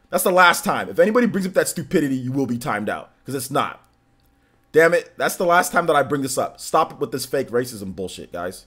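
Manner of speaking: firm, heated warning; getting upset. Real, not acted. Streamer warns chat to drop the racism accusations, upset. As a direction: lay down a final warning, irritated. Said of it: "now I'm actually gonna get upset".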